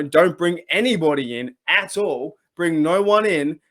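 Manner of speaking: ordinary talk, nothing marked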